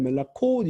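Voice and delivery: 멜라콧 with the weight on 콧; stress on final syllable. Shown as a demonstration. Teacher showing feminine plural, stressed final 콧 in 멜라콧. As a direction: stretch the o of 콧 in 멜라콧. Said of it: "강세가 오로 바뀌기 때문에".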